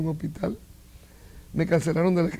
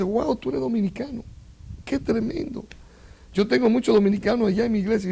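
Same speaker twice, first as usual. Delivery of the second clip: higher-pitched, mildly amazed greeting; retold amazement; 4 semitones higher than usual. Preacher greeting a fellow churchman from abroad, retold amazement. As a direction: imitate an impressed welcome, pitch lifted.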